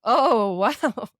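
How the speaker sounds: loud swooping mimicry of admirers; drawn-out mock amazement; cooks' admiring wow. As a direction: repeat it like an ogling cook. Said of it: "a lot of time hearing".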